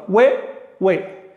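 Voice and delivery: hue, hue each one tight syllable; two syllables. Shown as a demonstration. Teacher showing the correct two-syllable reading. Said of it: "son dos sílabas".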